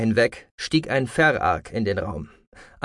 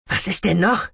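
high, irritated snap; hissing snap; 8 semitones higher than usual. A narrator's reading. Aglaya snaps at the mutineer who lingers, irritated. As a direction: snap at him in annoyance. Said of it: "fauchte Aglaya ihn an".

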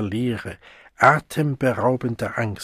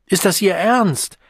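much higher, louder incredulous cry; disbelieving shout; 8 semitones higher, 4 dB louder than usual. A narrator's reading. Siegmund stunned by the refusal, high disbelieving call. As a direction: sound stunned and hurt.

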